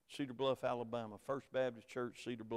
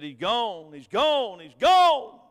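rising from plain to a loud anguished wail; retold wife's panic, climbing louder each time; building panicked cry; 5 semitones higher, 12 dB louder, slower than usual. Wife on the phone in panic, building to a loud cry. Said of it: "nearly screaming in the phone".

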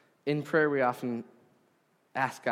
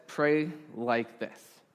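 slow quote; much slower than usual. Retold or imitated. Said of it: "Jesus says".

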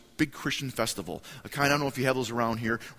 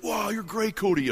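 mock flattery; 9 semitones higher than usual. Friends mockingly flatter him.

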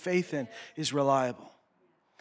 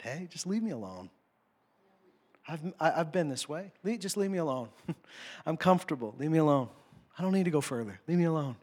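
mock complaint; 3 semitones lower, 7 dB quieter, faster than usual. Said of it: "I think we say this to God".

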